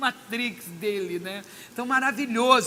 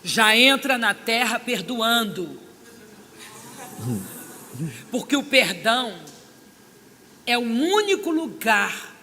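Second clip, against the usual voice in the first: strong divine voice; 6 dB louder, slower than usual. Retold or imitated. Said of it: "aquela voz assim, maravilhosa, forte".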